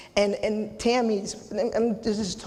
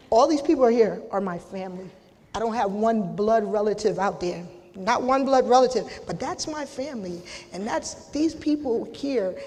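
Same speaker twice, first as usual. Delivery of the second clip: fighting back tears; 2 semitones higher, 3 dB louder than usual. Real, not acted. Thanking the people who became her family, close to tears. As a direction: voice pitched up and strained, holding back tears. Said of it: "I'm not gonna cry".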